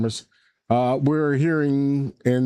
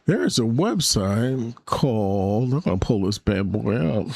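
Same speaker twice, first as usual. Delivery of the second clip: heavy breathing. Real, not acted. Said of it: "Sorry, I'm breathing hard into the microphone".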